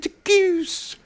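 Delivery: very high squealed goose; Jim Carrey goose. Retold or imitated. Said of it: "Do you know what I'm doing when I do it?".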